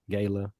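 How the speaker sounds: "gala" said GAY-luh, long a as in day; Southern pronunciation. Shown as a demonstration. Co-host explaining how the South says it, long-a pronunciation. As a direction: say "gala" softly with a long first a. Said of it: "in the South, we say".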